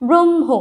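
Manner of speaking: ব্রহ্ম as "brom-ho", m held long; ব্রহ্ম with dominant m. Shown as a demonstration. Teacher demonstrating the conjunct, ব্রহ্ম with strong m. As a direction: hold the m in ব্রহ্ম, touch the h lightly. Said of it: "এই উচ্চারণটা এভাবে হয়ে যাবে".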